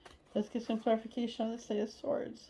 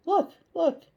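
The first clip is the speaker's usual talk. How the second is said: eager showing; 8 semitones higher, 7 dB louder than usual. Retold or imitated. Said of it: "showing him".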